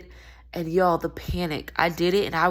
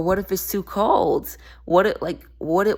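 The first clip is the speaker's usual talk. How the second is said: mock worry; 2 semitones higher, 5 dB louder than usual. Voicing fears that keep you from expanding, mock worry. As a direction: voice a hesitant person's worry, stretching the words.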